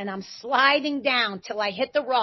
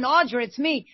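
retold yell; 5 semitones higher than usual.

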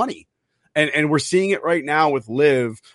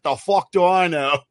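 mock northern British accent, slow and drawn out; 3 semitones higher, slower than usual. Caddy asked what a cleek is, northern British accent. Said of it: "his awesome northern fucking Britain accent".

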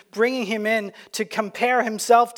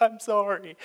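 casual Canadian sorry. Retold or imitated. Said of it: "We're like".

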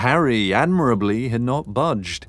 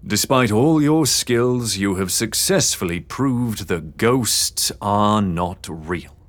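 bitter; slower than usual. Acted. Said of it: "edge of bitterness from his voice".

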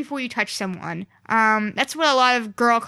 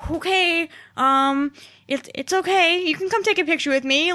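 higher-pitched, hesitant retold soothing; unsure reassurance; 5 semitones higher than usual. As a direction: act out gingerly calming an overwhelmed fan. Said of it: "didn't know how to handle the situation".

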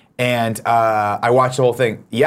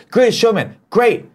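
high, gushing mock praise; sarcastic fan gushing; 10 semitones higher, slower than usual. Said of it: "Everyone's like".

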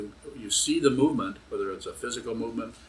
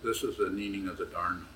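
ventriloquist voice. Shown as a demonstration. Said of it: "try to give a talk like a ventriloquist".

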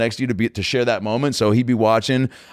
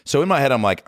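ordinary talk

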